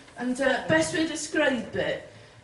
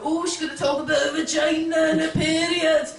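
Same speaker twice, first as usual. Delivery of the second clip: mock audience groan; 3 semitones higher, 3 dB louder than usual. Mimics audience prejudging female comedians.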